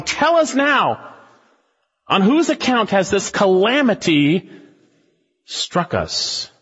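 high pleading demand, fading at the end; panicked sailors demanding; frantic sailors. Acted. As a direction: press him for an answer. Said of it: "sailors surrounding Jonah going".

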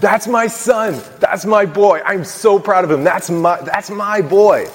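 high, slow, tearful imitation of a proud father; imitating crying dad. Father moved to tears watching his son play, imitated tearful pride. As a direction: choke it out like a dad welling up in the stands. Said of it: "crying and saying".

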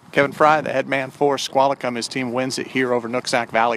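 upbeat sign-off announcer voice; sports broadcaster. Acted. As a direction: wrap up the game like a host.

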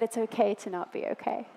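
soft, hushed retold whisper; Holy Spirit. Holy Spirit reassuring a struggling pastor's wife, softly hushed. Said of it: "I heard the Holy Spirit whisper to me".

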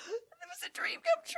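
imitating an awed giddy whisper; breathless awe. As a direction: whisper it like a starstruck husband. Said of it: "he's just like".

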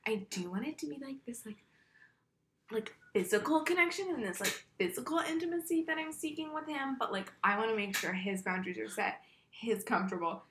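soft, earnest mock-sincere voice, rising high; breathy sincere contestant. Mocking the girls' earnest confessional talk, soft and high. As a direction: imitate a dewy-eyed contestant, softly.

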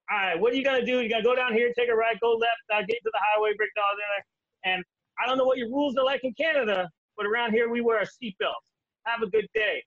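mock-stern trooper lecture; lecturing trooper. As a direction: talk down to the lost Canadian. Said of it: "He's like".

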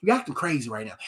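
low, soft voice of a patient God; God's reply. Acted. God answers his venting son, low hushed correction. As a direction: talk the ranter down, quiet and low. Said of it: "so that he'll be like".

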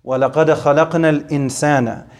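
measured, melodic Quranic chant in Arabic; Quran recitation. Acted. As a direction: recite the verse as in tajweed.

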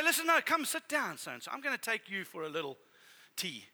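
gentle nurturing. Retold or imitated. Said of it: "Come and say".

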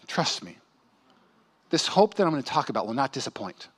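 hushed, low, tender plea; soft pleading. Retold or imitated. Holy Spirit gently pleading with discouraged believers. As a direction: coax them not to give up. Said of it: "that kind of pleading".

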